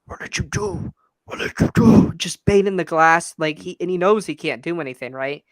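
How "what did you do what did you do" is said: panicked demand. Retold or imitated. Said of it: "he's terrified".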